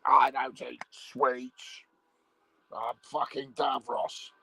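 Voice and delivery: slow, lightly voiced sci-fi villain; a hint of Davros, drawn out and dismissive. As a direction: refuse slowly as a mock Davros. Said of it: "And he'd go".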